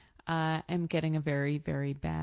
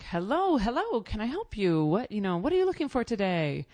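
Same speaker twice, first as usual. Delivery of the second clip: higher, pushy greeting of a pouncing salesman; eager shopkeeper; 5 semitones higher, faster than usual. Retold or imitated. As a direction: chirp it like a desperate salesman. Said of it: "he jumps up when he sees me and is like".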